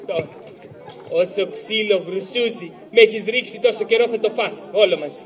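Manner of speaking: low threat. Acted. Threatening Karagiozis with a beating.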